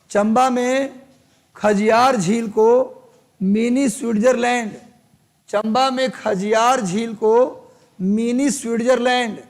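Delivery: measured dictation, a phrase at a time; teacher repeating a note with long pauses; classroom dictation. Real, not acted. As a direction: dictate it in spaced chunks for note-takers.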